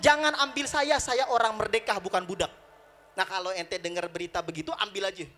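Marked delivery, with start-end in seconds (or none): 0.0-2.5 raised voice easing toward normal; mimicked protest cry. Nuaiman predicts the slave's protest, mock cry. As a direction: imitate a captive's protest, only half shouted. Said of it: "Dia bakalan teriak".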